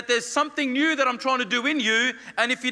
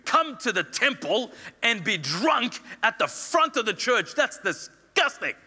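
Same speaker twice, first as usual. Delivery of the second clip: scolding priest; slower than usual. Acted. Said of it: "he goes over to her and says".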